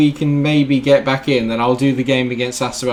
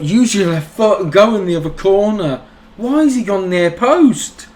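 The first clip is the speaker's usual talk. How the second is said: urgent yell; 8 semitones higher than usual. Real, not acted. Shouting at player on screen.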